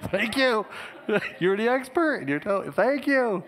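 high, loud mock-modest thanks with a laugh; bashful thanks. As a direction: play it shy and flattered. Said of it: "And I was like".

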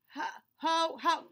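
father's high, loud stammering outrage; shocked father. Acted. Father sees the bad haircut, stammering in loud shock. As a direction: sputter it out in disbelief. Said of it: "he asked".

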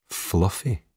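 Fluffy? asked back with a rising, unsure tune; puzzled question. A narrator's reading. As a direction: echo Fluffy? as if misheard. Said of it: "John asks as if he's misheard the word".

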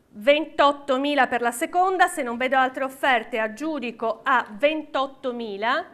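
rhythmic auction calling; auctioneer. Real, not acted. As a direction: call the bids like an auctioneer. Live auction, calling bids.

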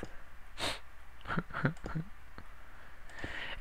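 soft, high mock sobbing; badly faked little whimper, mostly breath; quiet pretend crying; fake cry. Shown as a demonstration. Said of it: "Fake cry".

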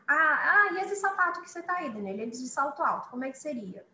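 high, quick viewer question; imitating a viewer. Teacher voices a viewer asking about heels. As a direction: ask it like an eager student. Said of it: "viewer question voiced".

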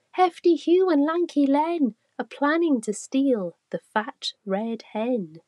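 high, loud, urgent warning to the farm; alarmed warning. A narrator's reading. Ladybug warning the farm animals, alarmed and urgent. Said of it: "filled with great alarm".

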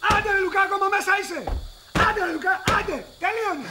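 mildly exasperated call through a door; impatient calling. Acted. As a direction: hurry someone out, fed up.

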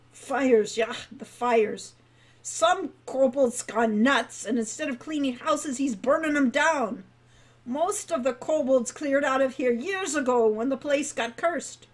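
put-on old guildmaster working himself up about ruin; rambling old dwarf. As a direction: ramble on like an old man lost in memories.

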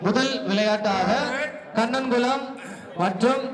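steady public address announcement; announcer. Acted. Announcer declaring the winning team to the crowd. Announces 60 kilo category match.

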